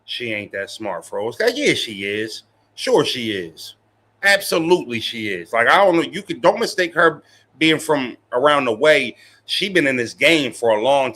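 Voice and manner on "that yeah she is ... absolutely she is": slow, drawn-out mock agreement; sarcastic. Real, not acted. Streamer backpedals to chat about a rapper, slow and sarcastic. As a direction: take it back with obvious irony, slowly.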